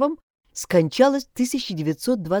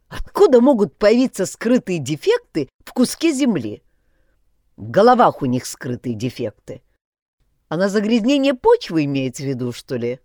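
shouting; 4 dB louder than usual. Acted. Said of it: "дала ему время накричаться".

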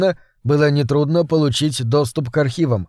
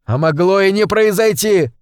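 shouted; 5 semitones higher than usual. Acted. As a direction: fling it at her. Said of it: "выкрикнул я".

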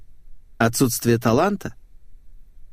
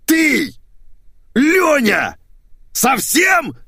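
much higher and louder furious yells; yelling; 4 dB louder, much slower than usual. Acted. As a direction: bellow each word at the critic. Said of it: "заорал мужской голос".

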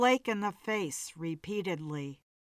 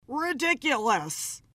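a mildly raised mock scream; 4 semitones higher than usual. A narrator's reading. Blake fed up with Kerr's phone call, mild scream. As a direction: bark it out, understated scream. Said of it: "he screamed".

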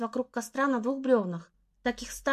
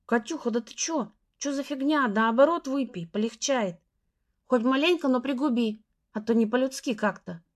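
pushy group. Acted. Group pressuring girl to drink.

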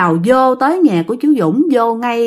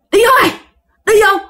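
scolding mother; 3 semitones higher than usual. Retold or imitated. Mother scolding possessed son.

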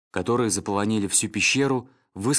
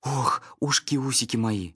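trembling joyful whisper; 3 semitones higher, slower than usual. Acted. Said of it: "прошептал Шустрик, дрожа от радостного волнения".

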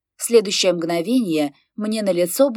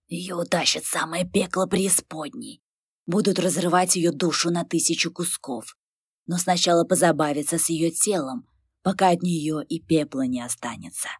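sinister gloating; 3 dB quieter than usual. Acted. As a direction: savour every cruel word. Werewolf gloating threat.

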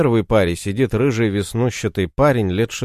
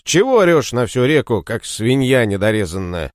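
angry scolding; 3 semitones higher than usual. Acted. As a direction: tell him off hotly. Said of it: "Мороз разозлился".

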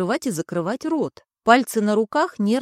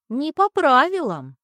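agreeing cloud voice; 5 semitones higher, 3 dB louder than usual. Acted. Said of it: "поддакнуло облако".

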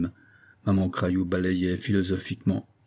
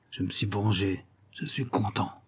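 cold satisfaction; 6 dB quieter than usual. Acted.

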